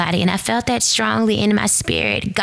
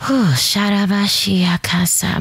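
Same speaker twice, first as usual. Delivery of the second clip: tongues whispered. Real, not acted. Speaking in tongues, moved.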